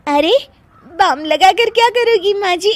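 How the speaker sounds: giggling through the question; words bubbling with laughter; laughing. Acted. Daughter-in-law to mother-in-law, giggling helplessly.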